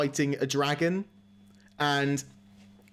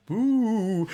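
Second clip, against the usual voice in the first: a hammed-up "Boo!", higher and louder; mock alien scare; 7 semitones higher, 4 dB louder than usual. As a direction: jump out and spook them, cartoon style. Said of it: "one of the classic aliens walk across, goes".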